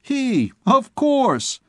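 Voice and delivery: sly mock; lightly voiced imp; impish aside. A narrator's reading. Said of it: "continued the small imp".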